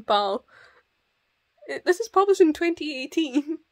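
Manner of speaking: amused, disbelieving scolding; mock incredulity. Reader scolding the main character over emailing a picture, incredulous. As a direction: tease them in exasperation, laughing as you go.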